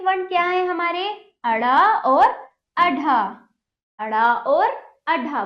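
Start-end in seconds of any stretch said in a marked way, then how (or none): 1.4-5.4 drawn-out teacher model, loud; slow, clear classroom drill; slow model syllables. Shown as a demonstration. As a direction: pronounce each sound slowly and loudly for children. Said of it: "बोलिए".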